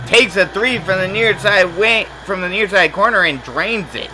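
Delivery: up-tempo play-by-play call; excited call. Real, not acted. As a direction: lift the voice as the shot drops. Made three-pointer call.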